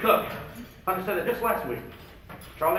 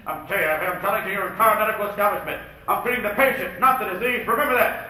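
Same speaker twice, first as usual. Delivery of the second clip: Patch Adams impression. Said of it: "like Pat Adams would say".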